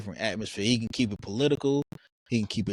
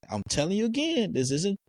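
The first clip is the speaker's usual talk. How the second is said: much higher, mock stern D L; high mock lecture; 10 semitones higher than usual. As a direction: lecture in a high mocking pitch. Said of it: "He was like".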